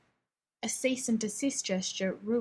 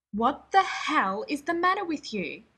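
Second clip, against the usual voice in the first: loud, higher demand; demanding shout; 5 semitones higher, 6 dB louder than usual. Acted. Rodney wheeling on Shepard, loud demand. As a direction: bark the question at him. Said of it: "he demanded".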